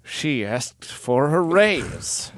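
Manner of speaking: slow, soft deadpan reply. Retold or imitated. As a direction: flatly justify it. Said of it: "And he says".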